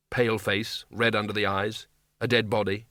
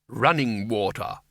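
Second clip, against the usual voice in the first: sudden realization; 3 semitones lower, slower than usual. Acted.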